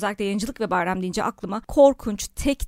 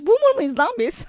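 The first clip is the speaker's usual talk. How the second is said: mock outrage; 10 semitones higher, 4 dB louder than usual. Real, not acted. Joking self-mockery.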